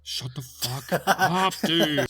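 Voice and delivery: laughing through the words. Real, not acted. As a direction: crack up mid-insult. Laughing retort.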